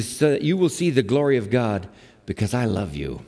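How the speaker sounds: low, gentle declaration of love; lightly acted tenderness; tender reassurance. Jesus tenderly reassuring grieving Martha.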